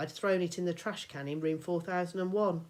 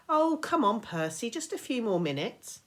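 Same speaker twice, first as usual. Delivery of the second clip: higher, loud begging; whiny pleading; 6 semitones higher, 5 dB louder than usual. Acted. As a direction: whine for just a bit more. Annabeth begs for more time.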